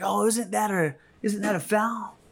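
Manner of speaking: high-pitched imitation of a questioning player; mock protest. Player asking the ref about a foul, mock protest. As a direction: raise the pitch as if querying a call.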